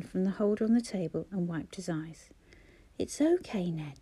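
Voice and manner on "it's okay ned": mother calming her upset son; soothing. Acted. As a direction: hush him tenderly. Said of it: "she soothed".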